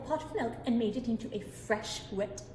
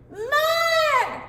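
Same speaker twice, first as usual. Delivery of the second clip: put-on demanding baby shout; 10 dB louder than usual.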